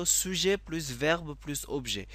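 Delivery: slow, spelled-out formula; slow formula dictation. Shown as a demonstration. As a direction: dictate each word slowly. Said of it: "সেই সূত্রটা হলো".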